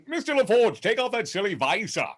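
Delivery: hammed-up starship captain, high and theatrical; high-pitched commanding British impression; Patrick Stewart. Shown as a demonstration. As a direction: give orders in a mock British captain's voice. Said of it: "So I'm doing that voice".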